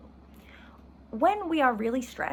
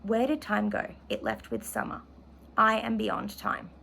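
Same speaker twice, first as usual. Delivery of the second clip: measured, expressive literary reading; steady novel reading to the class; reading aloud from the novel. Acted. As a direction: read the passage as if living it. Reads favourite quote aloud.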